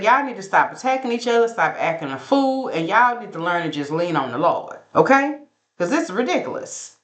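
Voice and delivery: lightly voiced Southern Baptist grandma, high and fast; a hint of a grandma scolding the family toward the Lord; church grandma. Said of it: "ready to give old Southern Baptist intervention".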